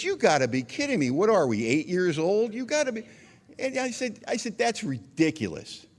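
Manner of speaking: high-pitched, exasperated retelling of a protest; indignant disbelief. Retold or imitated. Brother protesting to mom about sister's complaint, indignant. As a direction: sputter it, then drag out the final verdict.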